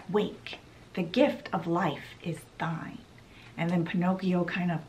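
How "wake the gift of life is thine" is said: whispered spell. Retold or imitated. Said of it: "and she said".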